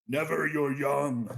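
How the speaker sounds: loud, high, drawn-out alien boom. A narrator's reading. Eliksni answers Drifter's accusation, booming. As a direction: boom it out slowly as the offended creature. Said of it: "The Elixni boomed".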